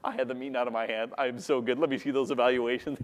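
self-mocking swagger, lightly put on; cocky. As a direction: imitate your own smug self, understated. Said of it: "and I would be cocky".

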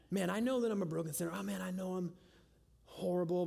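mock self-pity. Mocking wallowing self-pity.

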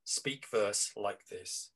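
slow, lightly imitated elocution instructor; a hint of a classical voice coach, drawn out; old-fashioned drama teacher. Old-school teacher instructs drama students in verse, lightly mimicked and slow. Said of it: "old-fashioned way".

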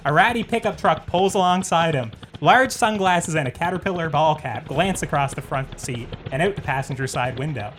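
measured script read-through; screenplay narration. Acted. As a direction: read the scene heading like a trailer. Reads screenplay aloud.

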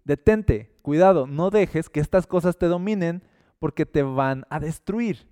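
stern heads-up to someone in danger; urgent warning. Acted. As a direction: warn them off firmly, voice lifted. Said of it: "cuando nos dice".

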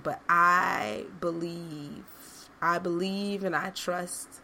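small inner voice. Retold or imitated. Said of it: "that small, small voice".

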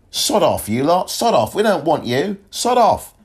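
high-pitched mock yell of rejection; mock angry dismissal. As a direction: shoo them off in a high, playful shout. Voices countries rejecting British tourists.

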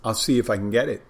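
talking while munching; chewing while talking. Real, not acted. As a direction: speak round a mouthful of food. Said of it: "I'm munching when I'm doing this stuff".

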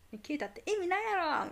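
mock angry retort. Man on phone scolding a coworker, fast mock anger. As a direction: rattle it off like a furious caller. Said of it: "めっちゃ怒ってる".

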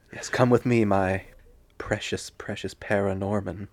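whispered, slow and possessive; creepy Gollum whisper. Pretend. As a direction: hoard it like a treasure. Cradling the DVD, Gollum-like.

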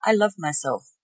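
nothing to prove, just know it. Shown as a demonstration. Final stage of knowing, calm and sure. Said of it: "the knowing".

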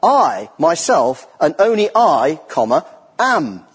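slow, weighty "I, myself, and only I"; emphatic rendering. Shown as a demonstration. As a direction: lean hard on each I, very slow. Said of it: "You could render it this way".

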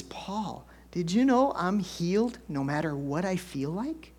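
imitating an excited wife, held in at first. Wife phoning husband with her discovery, excited. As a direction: act out a wondering discovery, ending on a rising question. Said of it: "called me up at work all excited".

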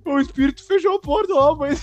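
put-on high, wailing child pleading; mock blubbering, beg through hammed-up sobs; imitated crying. Cousin begging his mother to send dad instead, imitated crying. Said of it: "meu primo chorando assim".

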